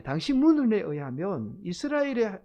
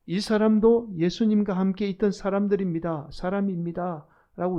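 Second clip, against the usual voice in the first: accusing outcry, only partly raised; mild crying out; 4 dB louder than usual. Acted. Bystander calling out against Peter, mild outcry. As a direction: call it out like an accuser, a little louder. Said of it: "베드로를 향해서 외쳐요".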